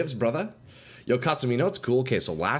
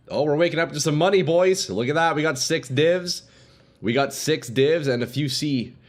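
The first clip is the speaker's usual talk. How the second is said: excited about loot; 5 semitones higher, 3 dB louder than usual. Real, not acted. Sees currency gained.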